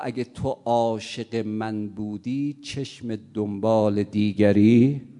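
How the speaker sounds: loud, slow, low rebuke; scolding. Acted. Girl rebuking the unfaithful suitor, loud slow scolding. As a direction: drag out the reproach, loud and low.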